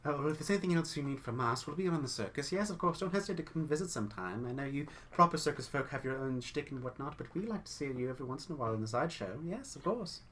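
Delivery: fast, eager chatter that finishes each other's sentences; quick chattering twins. Acted. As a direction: rattle it off like gossipy twins. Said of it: "The, uh, unjoined twins say".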